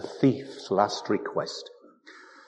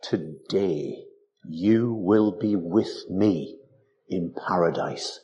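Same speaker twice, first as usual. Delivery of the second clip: very slow, lower, grave promise; solemn Jesus; 4 semitones lower, slower than usual. Retold or imitated. Preacher quoting Jesus to the thief, slow and solemn. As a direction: lay each word down slowly like a vow. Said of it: "Yet Jesus said".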